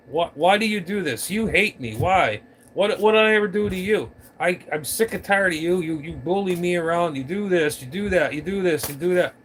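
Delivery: acted-out aggrieved complaint; mock accusing rant. Acting out others' accusing rant.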